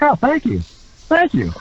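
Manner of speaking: high-pitched little thank-yous; acting out flattered gratitude; bashful thanks. Retells thanking applauding wrestlers.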